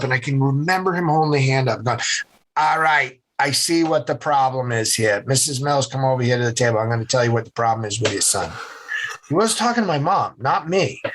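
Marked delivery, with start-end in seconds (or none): 2.6-8.5 lightly nasal New England doctor imitation; a doctor's verdict in New England accent; nasally New England accent. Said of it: "had that nasally New England accent".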